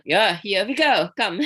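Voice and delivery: laughing through the words; chuckling as she speaks. Real, not acted. Laughing while recalling her past.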